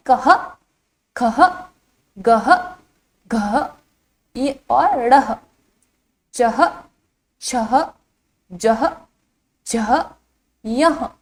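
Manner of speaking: each syllable from "कह" to "यह" said alone with an h ending; visarga pronunciation. Shown as a demonstration. Teacher reciting the chart for children, visarga pronunciation. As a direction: sound out "कह, खह, गह" and the rest singly, pausing after each. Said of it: "इसका उच्चारण किस तरह से किया जाता है".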